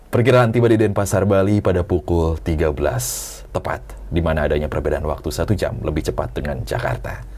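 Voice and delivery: calm, formal captain's cabin announcement; pilot cockpit announcement. Pretend. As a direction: address the passengers like an airline captain. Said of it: "Coba aja". (pengumuman pilot dari kokpit)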